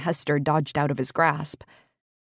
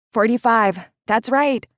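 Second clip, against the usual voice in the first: smiling voice; 6 semitones higher, 6 dB louder than usual. Acted. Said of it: "There was a smile in her voice".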